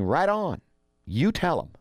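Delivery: high-pitched mock approval; cheering him on. Greek citizens backing their new leader, mock cheering. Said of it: "Greek citizens are going".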